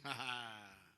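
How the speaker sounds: a touch of put-on outrage, slowing at the end; mock indignant refusal. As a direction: play the aggrieved one scoffing "imperdonable". Voices people refusing to forgive.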